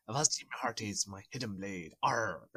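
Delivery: Welsh pirate voice; a pirate in a heavy Welsh accent; thick Welsh accent. Pretend. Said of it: "In a very thick Welsh accent".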